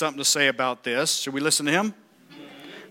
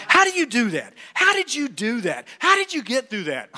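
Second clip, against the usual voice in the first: higher, marveling voice; admiring questioners; 6 semitones higher than usual. Retold or imitated. People asking the preacher, lightly voiced amazement. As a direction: ask in amazement. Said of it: "imagined people asking him".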